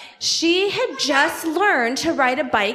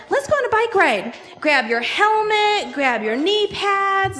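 rally the family, stretching each item; upbeat rallying; 5 semitones higher than usual. Acted. Parents get daughter ready for a bike ride, upbeat rallying.

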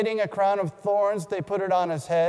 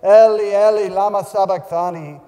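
crying out loud, the words ringing; a desperate loud cry of abandonment; loud anguished cry; 8 dB louder than usual. A narrator's reading. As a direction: call out to the heavens in anguish. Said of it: "Jesus cried with a loud voice".

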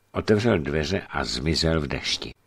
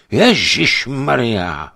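frightened cry; 6 semitones higher, 8 dB louder, much slower than usual. Acted. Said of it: "vykřikl".

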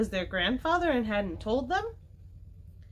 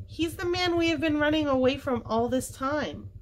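higher-pitched, eager explanation; 7 semitones higher than usual. A narrator's reading. Henry telling Jessie about the man, eagerly. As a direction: spill the news eagerly. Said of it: "said Henry eagerly".

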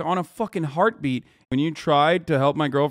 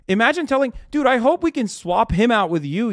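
furious; 5 semitones higher, 3 dB louder than usual. Real, not acted. Furious rant at chat user.

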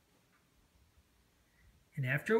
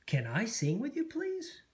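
pleading; 7 semitones higher than usual. Acted. Asking to join the chorus.

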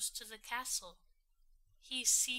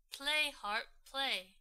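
commanding giant; 3 semitones higher, 6 dB louder than usual. Acted. Giant ordering the harp.

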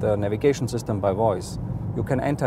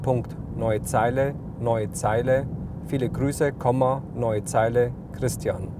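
dictating. Shown as a demonstration. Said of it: "Mit der Diktierfunktion können Sie nun beliebigen Text frei diktieren".

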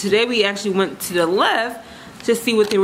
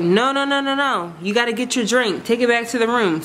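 higher, pushy mock insistence; insistent bartender; 3 semitones higher than usual. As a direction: imitate a bartender pressing drinks. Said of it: "he was like".

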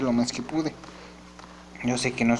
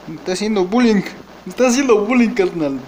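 indignant outcry; 6 semitones higher, 6 dB louder than usual. Real, not acted. Complaining he is being bullied.

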